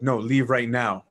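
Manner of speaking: stern, deliberate command, slowed down; angry, authoritative. Retold or imitated. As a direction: imitate an irritated elder laying down the law. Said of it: "Very angrily, very authoritatively".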